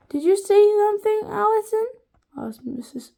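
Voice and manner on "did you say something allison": surprised question. A narrator's reading. Teacher asks.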